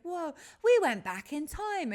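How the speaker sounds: slow, loud, hammed-up time-travel line; mock dramatic video line; acted-out retold line. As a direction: ham up the amazement of going back in time. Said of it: "It's like".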